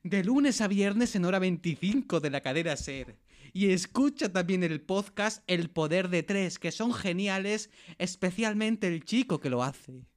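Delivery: put-on slow, drawn-out Eastern European accent. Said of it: "con acento de Europa del Este".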